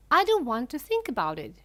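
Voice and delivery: fast, loud shriek. A narrator's reading. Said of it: "shrieked Missus Gloop".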